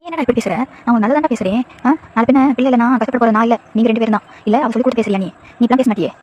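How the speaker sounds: a lightly voiced mother nagging her son; mild reproach, a mother complaining; scolding mother-in-law. Mother-in-law scolding son over no grandchild, lightly voiced.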